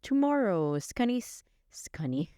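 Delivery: slow, put-on radio weather read; radio weather announcer. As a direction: imitate a radio forecast, stretching the words slowly. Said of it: "listening to the radio and they said".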